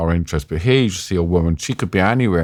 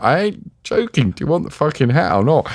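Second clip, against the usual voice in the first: higher-pitched, comic indignation; mock exasperated insistence; 6 semitones higher than usual. Reporter to civilian refusing his helmet, mock exasperated. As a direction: insist you mean it, pitched up.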